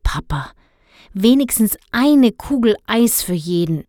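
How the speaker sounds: put-on pleading child; boy begging his father for ice cream. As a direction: beg your father sweetly. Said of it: "bettelte Dennis".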